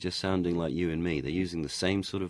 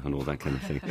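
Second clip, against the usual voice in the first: ordinary delivery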